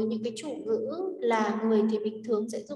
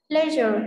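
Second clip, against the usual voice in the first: "Leisure" with a louder, higher first syllable; stress on first syllable; 3 semitones higher, 6 dB louder than usual. Shown as a demonstration. Teacher showing word stress to students, stress on the start of "Leisure". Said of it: "trọng âm số một".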